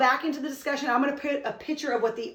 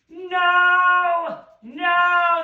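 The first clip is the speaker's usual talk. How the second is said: loud, high shout of no; 6 semitones higher, 9 dB louder than usual. Shown as a demonstration. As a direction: shout it like a bird in a tantrum. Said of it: "That's him shouting it".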